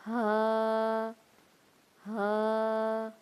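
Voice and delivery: ہا with a warm breath pushed out; airy haa; breathy haa. Shown as a demonstration. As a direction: breathe out the ہا warmly. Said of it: "گرم سانس پھینک کر".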